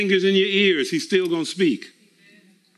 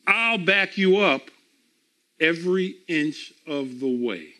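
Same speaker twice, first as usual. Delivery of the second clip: firm, measured reading of God's command; scripture reading. Acted. Reads God's promise in scripture.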